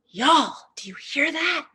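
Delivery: high, eager question to the group; eager calling out. Retold or imitated. Guide to lethargic teens on hearing birds, eager calling out. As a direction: call out to rouse a sleepy crowd. Rousing sluggish teens in story.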